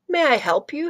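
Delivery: asked up high, like a keen shop clerk; first try at the librarian. Shown as a demonstration. Reader's first take at grumpy librarian's offer, high and rising. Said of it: "Oh, wait, let me read that again".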